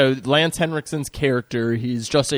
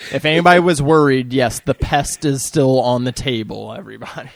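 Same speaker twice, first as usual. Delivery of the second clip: loud announcement; 6 dB louder than usual. Real, not acted. Announcing to audience.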